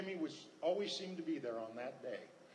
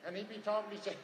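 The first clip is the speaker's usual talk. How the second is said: rapid-fire Texan talker, pitched up; Jimmy; 4 semitones higher than usual. Retold or imitated. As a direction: imitate a fast talker running thoughts together. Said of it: "He used to talk like this".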